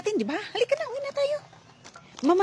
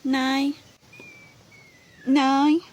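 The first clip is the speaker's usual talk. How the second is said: usual speaking voice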